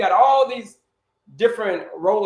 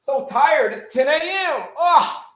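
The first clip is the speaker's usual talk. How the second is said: tired office worker; 6 semitones higher, slower than usual. Retold or imitated.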